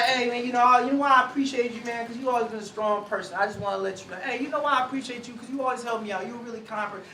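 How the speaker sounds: soft, sincere praise to a friend; warm affirming words. Shown as a demonstration. Speaker affirming a friend, soft and sincere. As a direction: tell a friend you appreciate him, gently. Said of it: "you hear the affirmation in it".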